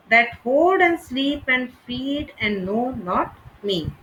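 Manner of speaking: each stressed syllable marked; scanned reading. Shown as a demonstration. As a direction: read it beat by beat, hitting the stresses. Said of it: "could be scanned this way".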